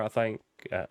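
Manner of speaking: "think" said like "thaink", Southern US accent. Real, not acted. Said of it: "my southern accent really pokes through".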